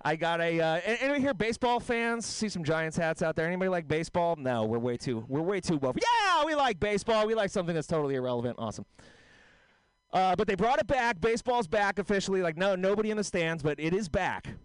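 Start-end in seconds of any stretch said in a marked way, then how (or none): 6.0-8.6 fake-cheery crowd voice; mock enthusiasm. Comic answering his own question for the crowd, with mock cheer.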